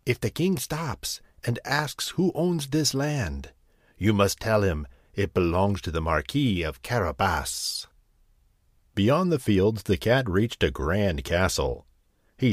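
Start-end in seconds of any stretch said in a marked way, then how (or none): 0.0-7.9 sly cat voice. Acted. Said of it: "he told them".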